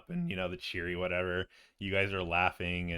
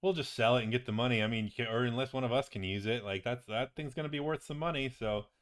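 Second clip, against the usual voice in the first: higher-pitched, animated character voice; excited wizard companion; 7 semitones higher than usual. Acted. Friend tells patient about the longsword, excited and breezy. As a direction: marvel at the find, then shrug it off breezily. Game master voices Doggold on the sword.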